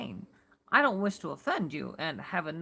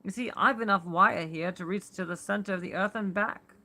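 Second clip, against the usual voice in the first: louder, steady New York-ish Warren; firm, unperturbed warning to a friend; mellow tenor; 4 dB louder than usual. Acted. Warren warning Carter to stay above, in a light New York accent. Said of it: "in his mellow tenor voice".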